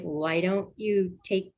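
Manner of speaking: hesitant, asking carefully, rising tune; tentative question. Retold or imitated. Mom gently suggesting a bath to her hurting daughter, tentative. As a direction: offer it as if unsure you should ask. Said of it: "she said it like a question mark".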